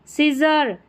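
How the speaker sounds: सीजर opening on a plain s. Shown as a demonstration. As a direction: say सीजर with SC sounded as s. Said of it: "सीजर में एससी का स".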